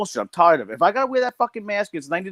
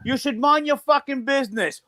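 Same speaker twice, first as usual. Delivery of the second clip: higher, whiny put-on voice of the rude shopper; mocking woman's voice; 7 semitones higher than usual. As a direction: mimic her snippy retort, pitched up. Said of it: "She goes".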